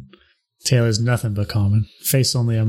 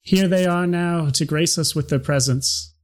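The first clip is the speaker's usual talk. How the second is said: town crier; 6 semitones higher than usual. Acted. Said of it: "And he goes".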